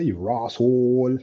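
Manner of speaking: slow, drawn-out Bajan imitation; lightly put-on Bajan drawl; Bajan accent. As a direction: stretch it out in a mock Bajan accent. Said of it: "what, what they say?".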